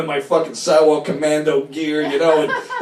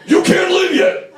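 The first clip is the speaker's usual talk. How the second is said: eerie voice; 5 dB louder, slower than usual. Retold or imitated. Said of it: "it's like I said".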